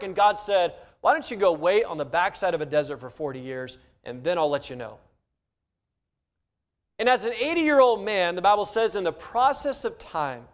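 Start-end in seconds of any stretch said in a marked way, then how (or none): 1.0-5.0 voice of God. Acted. God's reply, voiced by preacher.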